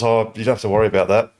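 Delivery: quick evasive mumble; mumbling. Retold or imitated. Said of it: "Alex sort of mumbles".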